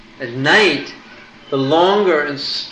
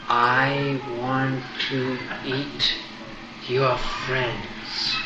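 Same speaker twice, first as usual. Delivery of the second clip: menacing demon; slower than usual. Acted. Rakshasa threatens Balaram.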